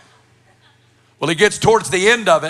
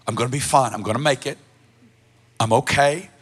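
building desperation. Retold or imitated. Retelling his own desperate inner prayers.

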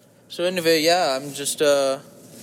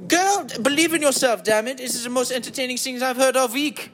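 higher-pitched, emphatic pep talk; mock indignant encouragement; 6 semitones higher than usual. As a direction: cut in with playful outrage. Answers own doubt as hype friend.

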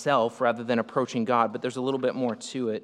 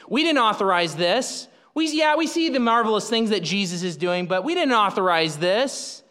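higher and louder, indignant officials; a hint of prickly priests protesting; offended temple leaders; 6 semitones higher, 3 dB louder than usual. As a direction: play the leaders as put out that they never approved this.

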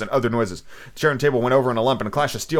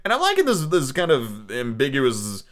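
between Cajun and Foghorn; 2 semitones higher, slower than usual. Acted. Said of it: "I like this voice".

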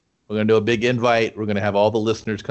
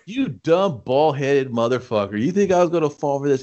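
higher, scornful villain rant; mock insult; 4 semitones higher than usual. Shang Tsung mocking bald Quan Chi, hammed-up scorn. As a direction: taunt him like a sore winner.

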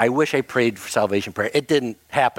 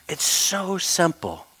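voice of the Lord; slower than usual. Retold or imitated. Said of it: "felt the Lord just say to me".

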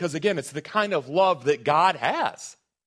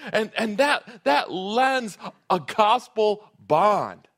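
preaching at full force; 7 semitones higher, 4 dB louder than usual. Real, not acted. Preacher rising on gospel bond.

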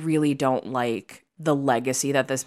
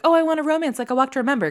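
mock romantic girl; 9 semitones higher, 4 dB louder, much faster than usual. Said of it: "they weren't obviously saying, like".

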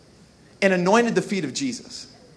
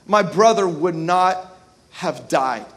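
grieving Martha; 4 semitones lower, slower than usual. Retold or imitated. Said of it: "Martha said to Jesus".

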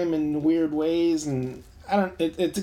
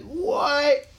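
shocked what; 11 semitones higher than usual. Retold or imitated. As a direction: blurt it out in disbelief. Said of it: "And I was like".

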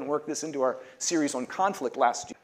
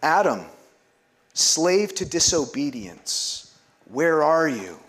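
louder, slow ringing call; liturgical call; 3 semitones higher, 6 dB louder, slower than usual. Acted. Pastor leading the Lenten litany, calling each name out loud. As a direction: call the name out across the church. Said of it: "We all say".

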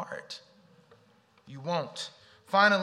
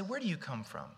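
gentle inner talk; 4 semitones higher, 3 dB quieter than usual. Pretend.

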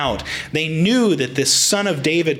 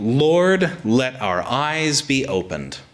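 pleading; slower than usual. Retold or imitated. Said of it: "we read their statement".

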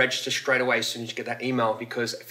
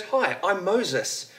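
slow, higher-pitched introduction; lightly voiced parrot; 6 semitones higher, much slower than usual. Parrot introducing itself to the burglar, lightly voiced. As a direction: introduce yourself as a joke parrot, drawn out and high.

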